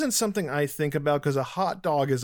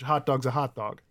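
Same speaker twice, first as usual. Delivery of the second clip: Chicago accent; 2 semitones lower than usual. Real, not acted. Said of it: "I got a little too Chicago-y in my accent there".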